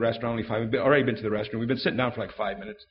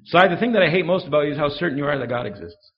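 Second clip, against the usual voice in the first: friend's challenge; 4 semitones higher, 6 dB louder than usual. Retold or imitated. Friend's challenge retold louder.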